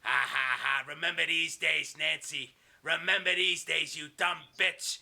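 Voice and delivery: slow, gloating villain voice; mock evil laugh, then drawn-out taunt; lightly voiced sneering bad guy; Kevin Sullivan. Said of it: "he steps over like this and he goes".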